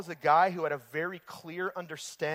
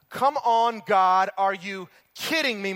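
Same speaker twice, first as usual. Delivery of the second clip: exasperated complaint; 5 dB louder than usual. Pretend. Preacher acts exasperated complaint.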